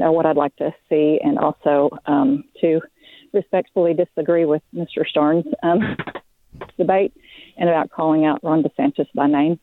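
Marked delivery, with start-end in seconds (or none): 3.3-9.6 breathless while walking; talking out of breath on a walk. Real, not acted. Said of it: "so I'm out of breath".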